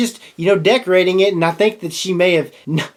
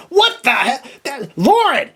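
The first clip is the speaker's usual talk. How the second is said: higher startled call to Lauren; alarmed shout; 8 semitones higher, slower than usual. Retold or imitated. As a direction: call out to his wife in a panic. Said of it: "And I'm sitting there going".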